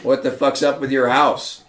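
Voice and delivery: mock-outraged blunt friend, drawn out; Siva Cass, annoyed. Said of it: "Siva Cass would have said".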